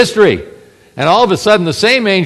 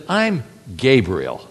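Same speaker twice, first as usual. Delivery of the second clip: slow, low, firm self-announcement; lightly stern Gabriel; stern angel; 5 semitones lower, 4 dB quieter, slower than usual. Acted. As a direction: pull rank slowly.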